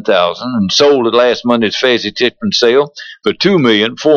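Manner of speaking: radio ad announcer read; polished sponsor spot delivery. Acted. Reads a second stallion ad.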